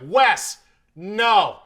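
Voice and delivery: loud, high one-word warnings; retold emphatic shout across the bar; dropping character, warning. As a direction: call a friend off, like a command. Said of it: "complete drop of character in front of everybody".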